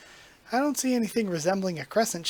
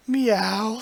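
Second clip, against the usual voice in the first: cat meow; 4 semitones higher, 4 dB louder than usual. Pretend. Voicing the cat's reply.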